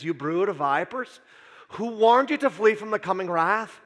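light Scottish brogue, preacher fire. Pretend. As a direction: thunder it in a Scottish accent. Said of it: "fun to say that line in a Scottish brogue".

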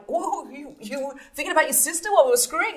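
high, loud outraged accusation. Retold or imitated. Woman accuses her lover of thinking of his sister, outraged and loud. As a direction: hurl it at him, appalled. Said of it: "she's like".

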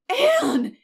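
high, loud shocked cry; startled guardian's rebuke; exclaimed in consternation. A narrator's reading. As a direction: cry out the name, appalled. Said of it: "exclaimed Marilla in consternation".

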